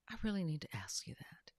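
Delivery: hushed and earnest, breath only; pleading whisper. Retold or imitated. Husband pleading with his wife, whispered. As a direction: whisper it like a confession you need granted.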